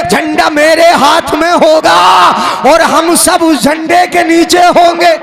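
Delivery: slow, high, ringing sermon cry; fiery preaching. Acted. Preacher rousing congregation about the flag, fiery chant. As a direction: preach it out to the crowd, drawing each phrase.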